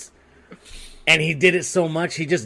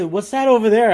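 mock distraction; 9 semitones higher, 8 dB louder than usual. Quoting the doctor's distraction.

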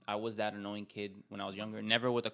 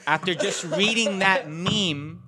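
laughing; 7 semitones higher, 10 dB louder, slower than usual. Real, not acted. Laughing at the meme.

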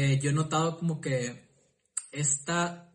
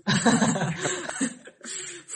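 hearty laugh; 5 semitones higher than usual. Real, not acted. Host laughing at friend's joke about nudes, hearty laugh. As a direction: burst of amused laughter.

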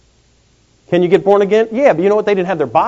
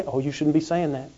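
much softer mock disapproving remark; soft mocking scold; prissy scold; 3 semitones lower, 11 dB quieter than usual. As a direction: mince it like a busybody.

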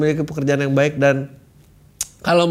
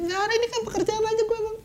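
squeaky high mocking excuse; mock the excuse in a high squeak; 8 dB quieter, faster than usual.

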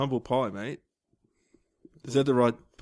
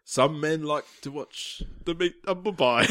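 mock-solemn film villain, half laughing; theatrical villain's pronouncement; Bane; 2 semitones higher than usual. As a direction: intone it like a comic-book baddie. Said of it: "What are you doing here, Bane?".

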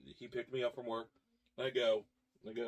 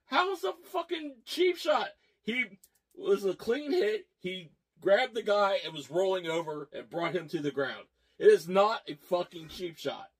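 high-pitched, indignant protest; retold yelling; 4 semitones higher than usual. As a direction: re-enact arguing heatedly with a buddy. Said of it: "I am yelling".

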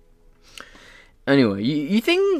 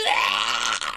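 mock libertarian scream; 7 semitones lower, 7 dB quieter than usual. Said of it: "Cue the libertarians screaming".

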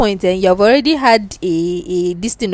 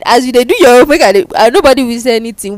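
laughing; 3 semitones higher, 5 dB louder, faster than usual. Pretend. Laughing mock proposal in Pidgin.

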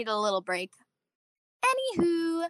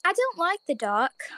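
Bella's declaration; 6 semitones higher, slower than usual. Acted. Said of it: "Bella declared".

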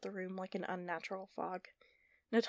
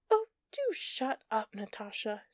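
dismissive; 4 dB louder than usual. Acted. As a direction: brush her off with scorn. Villain's dismissive taunt.

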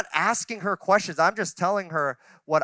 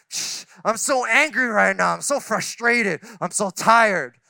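spray out complaints like a skunk, half-joking; mock venting. Husband imitating himself venting at his wife, mock grumbling. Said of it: "it just comes out like this skunk spray".

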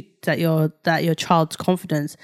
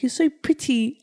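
higher, lightly imitated small boy; little baby voice; 5 semitones higher, 4 dB quieter than usual. Son complimenting his mum, light baby voice. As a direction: say it like a doting toddler. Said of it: "hear him saying his little baby voice".

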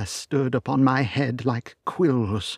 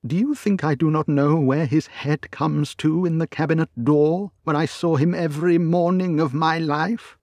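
higher and louder, protesting hard; crying out; 8 semitones higher, 6 dB louder than usual. A narrator's reading. Butler insisting to the lawyer, higher and louder in protest. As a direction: cry out in indignant protest. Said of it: "cried Poole".

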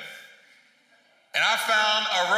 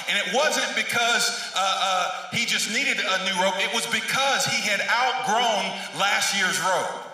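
imitated guest preacher; 3 semitones higher than usual. Pastor retelling a guest speaker's sermon to the church, emphatic preaching. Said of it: "he's preaching and he goes".

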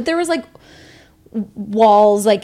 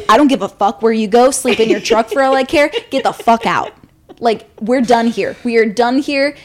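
louder, firm; telling the date to get out, furious; angry kick-out; 4 dB louder than usual. Retold or imitated. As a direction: throw him out for good. Throwing him out.

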